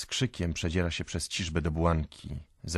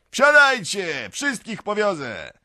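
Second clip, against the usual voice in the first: high, long-drawn holler; calling out loudly; 10 dB louder, slower than usual. A narrator's reading. Peasant urging everyone onto his cart, shouting. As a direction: yell it out slowly to the whole crowd. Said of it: "woła znowu Mikołka".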